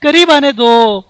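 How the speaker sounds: real mid-match urgency; urgent instruction. Real, not acted. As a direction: steer a teammate into hiding, urgently. Directing teammate as enemies approach.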